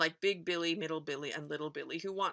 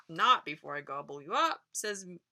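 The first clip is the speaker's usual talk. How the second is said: booming troll. Acted. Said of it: "Troll booms from below".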